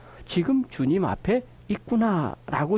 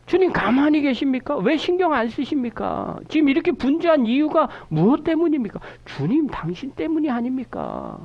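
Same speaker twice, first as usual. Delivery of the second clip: higher, accusing questions thrown at the Lord; mildly acted grievance, pitched up; resentful reproach; 6 semitones higher than usual. Shown as a demonstration. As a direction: complain as if he owes you an answer. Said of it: "이렇게 원망하는 거예요".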